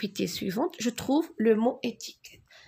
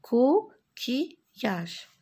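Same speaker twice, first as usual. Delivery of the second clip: "Coquillage" slow, with short breaks between syllables; syllables closer together; 2 semitones higher, much slower than usual. Shown as a demonstration. Teacher repeating coquillage for pupils, syllables closer together. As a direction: join "Coquillage" up a little, still syllabified. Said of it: "Je forme des syllabes".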